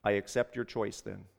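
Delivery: low, soft resignation; subdued, settled farewell; quiet acceptance. A narrator's reading. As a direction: say it quietly, as a final decision. Quiet final acceptance before letting go.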